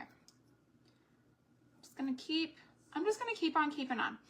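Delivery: playful singsong self-encouragement. Real, not acted. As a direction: lilt it like a little motto. Singsong resolve while crafting.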